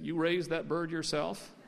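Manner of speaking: measured, questioning "yourself"; asked as a question. A narrator's reading. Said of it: "It was a question".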